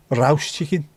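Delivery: broad Birmingham vowels; lightly hammed-up Brummie; Brummie accent. Shown as a demonstration. Crisp fan listing flavours in a Brummie accent. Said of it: "said in a Brummie accent".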